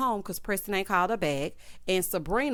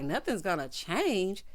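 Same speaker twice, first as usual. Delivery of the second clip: slow, doubting repeat of "Nothing's gonna change?"; incredulous echo; 3 dB quieter, slower than usual. Retold or imitated. Girlfriend throwing his promise back, slow incredulous echo. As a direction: drag it out in disbelief.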